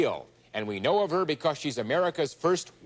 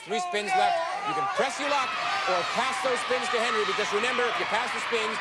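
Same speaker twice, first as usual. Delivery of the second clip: excited; 8 semitones higher than usual. Real, not acted. Host hyping decision.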